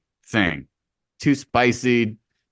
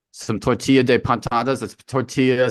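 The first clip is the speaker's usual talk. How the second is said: Spanish accent. Shown as a demonstration. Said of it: "that's not really a good accent that I'm using here".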